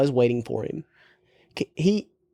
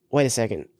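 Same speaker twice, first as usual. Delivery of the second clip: shocked disbelief; 3 semitones higher, much faster than usual. Retold or imitated. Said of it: "Brittany was like".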